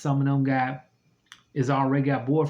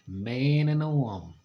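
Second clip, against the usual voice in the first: God's answer. Retold or imitated. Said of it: "And he was like".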